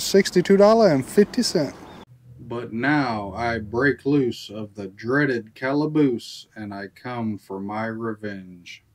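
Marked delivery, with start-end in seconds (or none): 2.4-8.8 slow, ominous villain vow; spooky villain voice. Pretend. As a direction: growl it out like a vengeful outlaw. Mock villain escaping the jail.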